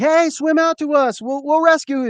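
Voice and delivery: high mock call from a ship. Ship's crew hailing the man on the island, calling out. Cruise ship calls to castaway.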